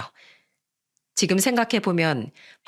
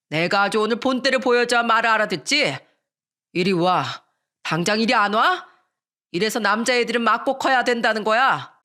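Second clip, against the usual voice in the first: father's acted menacing rant; angry threatening; 2 semitones higher than usual. Drunk father threatening to beat his son, angry. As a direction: scold and threaten the child, mildly raised voice.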